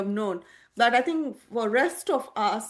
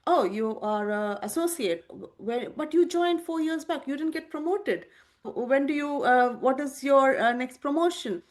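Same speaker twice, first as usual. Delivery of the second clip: raised-pitch mock inquisitive quiz; lightly voiced prying acquaintance; prying questioner; 4 semitones higher than usual. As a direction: press like a relative probing your career. Society quizzing about job rank.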